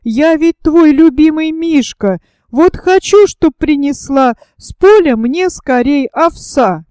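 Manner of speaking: pouty, demanding little cub; whiny child. Acted. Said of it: "Закапризничал сынишка".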